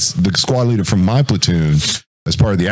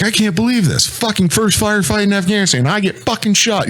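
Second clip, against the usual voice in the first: retold anger; 13 semitones higher than usual. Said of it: "He's pissed".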